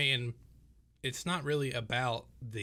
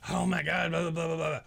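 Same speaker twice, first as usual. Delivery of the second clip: raised, loud whiny mock voice; whiny friend impression; 5 semitones higher, 5 dB louder than usual. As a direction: mimic a dramatic complaining buddy. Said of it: "and you're like".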